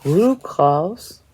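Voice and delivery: whispered name, almost to herself. Real, not acted. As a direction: breathe the name out without voice. Reading a chart name softly.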